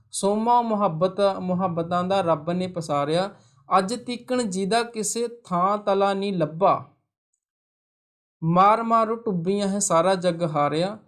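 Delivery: slow, measured verse reading; unhurried classroom poem reading; poem recitation. Acted. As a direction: read the verse out line by line, drawing out the words. Reads the poem aloud.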